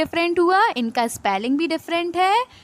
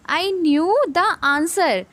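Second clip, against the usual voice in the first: very slow, word by word; slow read-aloud; 3 semitones higher, much slower than usual. Shown as a demonstration. Teacher reading the example sentence, very slowly. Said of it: "ये वाला".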